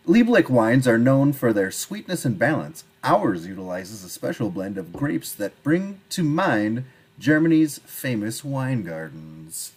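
lightly formal wine-label reading. Acted. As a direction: read the back of the bottle like ad copy.

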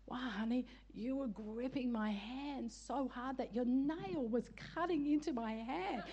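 slow, drawn-out mock complaint; mock complaining husband. Husband complaining to wife about his hand, mock-pained. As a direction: lightly imitate a sorry-for-himself husband, stretching it out.

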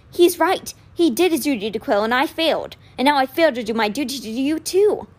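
put-on anxious, regretful young voice; upset young man. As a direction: pour it out in remorse. Alex blaming himself.

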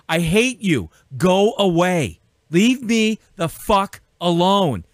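slow, heated, every word pushed out; angry dismissal. Real, not acted. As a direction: drive them away, drawn out and fed up. Angry rant at "woke" opponents.

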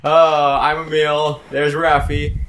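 loud, upbeat show opener; podcast host intro. Acted. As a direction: welcome the audience like a host. Host opens the episode.

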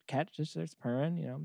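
ordinary talk, nothing marked

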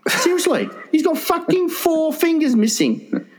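high, laughing incredulous; can't believe it, laughing; laughing disbelief. Real, not acted. Laughing disbelief over missing fingers.

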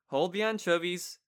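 put-on a light New York accent on the title; a playful hint of a New York accent. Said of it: "kinda like a New York kinda accent there".

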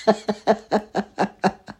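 high-pitched burst of laughter; amused laugh. Real, not acted. Comedian laughs at his fast-food story, high giggling laugh. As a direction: laugh at the absurdity.

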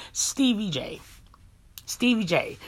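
"Stevie J" set apart by pauses; name repeated for emphasis. Real, not acted. Vlogger repeating the name to make a point, emphatic. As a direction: land on "Stevie J" as a statement by itself. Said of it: "let me say the name again".

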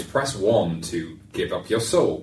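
slow, flat automated phone menu voice; robot voice. Retold or imitated. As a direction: read it like a robotic phone system. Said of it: "that robotic voice".

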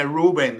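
"Rubén" said English-style, stress on the first syllable; Americanized Rubén. Retold or imitated. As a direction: say "Rubén" as ROO-ben, gringo style. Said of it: "No venga a decirme Rubén".

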